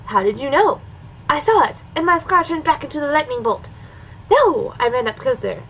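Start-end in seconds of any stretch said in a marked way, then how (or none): 4.3-4.7 high, sudden dramatic "No!"; alarmed cry. Acted. Story character cries out.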